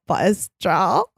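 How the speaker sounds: creaky, shrill fry on the password; fry it out shrill and bored; shrill vocal fry voice. Shown as a demonstration. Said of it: "I'll say it in my shrill, uh, vocal fry voice".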